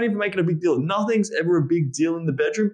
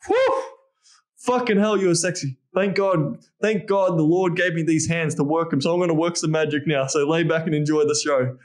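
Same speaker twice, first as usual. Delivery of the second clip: playful excitement. Shown as a demonstration. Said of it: "Just be like".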